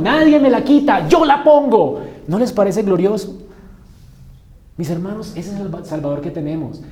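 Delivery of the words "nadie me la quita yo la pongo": loud, high, triumphant "Nadie me la quita"; loud proclamation, repeated. Acted. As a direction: repeat the proclamation with full force. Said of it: "la dio, no se la quitaron". (proclamación triunfal repetida, muy fuerte)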